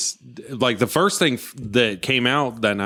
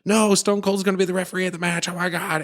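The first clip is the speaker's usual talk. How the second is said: higher, lightly hammed-up boast; mock wrestler boast; 7 semitones higher than usual. Wrestler revealing Stone Cold as referee, mock gloating. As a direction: gloat at the crowd in a put-on voice. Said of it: "he's like".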